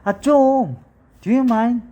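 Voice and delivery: high, loud exasperated complaint; fed up with nonsense, push back; exasperated protest. Shown as a demonstration. Teacher fending off nonsense talk, exasperated.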